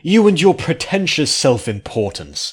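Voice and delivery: high, loud seething anger; through gritted teeth. A narrator's reading. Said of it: "gritted his teeth".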